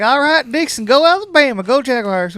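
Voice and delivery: loud mock cheer at the player; heckling fan shout. Heckling first baseman at game.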